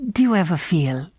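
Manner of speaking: hushed, eerie whisper. Acted. The stranger confiding his dread to Helen, whispered. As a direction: breathe it like a secret.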